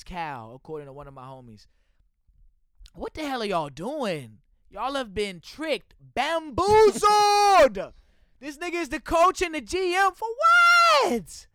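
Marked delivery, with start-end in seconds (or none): 6.0-11.5 high, loud, stretched-out yell; outraged shout. Real, not acted. Fan shouting at the Texans front office, furious. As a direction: roar it in disbelief. Ranting about the Texans' coach.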